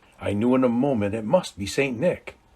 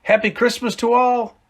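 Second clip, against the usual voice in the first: exclaim; 4 semitones higher, 5 dB louder than usual. Acted. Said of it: "I heard him exclaim".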